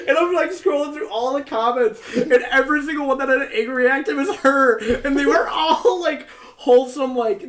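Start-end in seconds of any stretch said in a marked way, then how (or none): 0.1-4.8 laughing. Real, not acted. Laughing while telling story.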